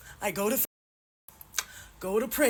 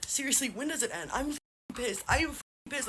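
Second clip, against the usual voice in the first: tearful rage; 6 semitones lower, 5 dB quieter than usual. Real, not acted. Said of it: "I am so, so rageful".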